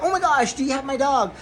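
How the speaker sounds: high-pitched, eager retelling; excited. Retold or imitated. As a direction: gush like you just found your dog. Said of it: "So I'm, like, super excited".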